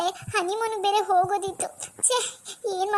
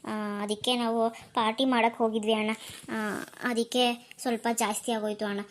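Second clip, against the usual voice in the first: put-on drunk pleading; 5 semitones lower than usual. Tipsy sister pleading with brother.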